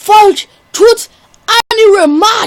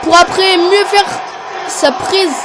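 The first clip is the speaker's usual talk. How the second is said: wrestling commentator. Acted. Play-by-play of the match.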